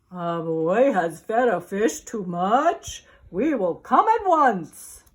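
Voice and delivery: a lightly voiced fireman, questioning. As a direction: echo it back in surprise. Fireman answering radio.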